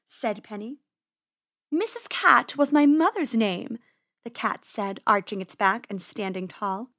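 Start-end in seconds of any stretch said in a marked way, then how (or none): 1.7-3.8 higher, louder feline disdain; grand, menacing cat voice; haughty cat. Acted. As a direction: correct them like a proud cat. Haughty cat corrects the rabbit.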